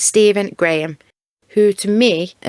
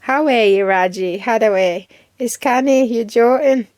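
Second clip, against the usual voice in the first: lilting amateur Geordie; attempted Geordie accent; 2 semitones higher than usual. Shown as a demonstration. YouTuber retrying Geordie for viewers, rough Geordie accent. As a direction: try out broad Geordie phrases. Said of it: "do a good Geordie accent".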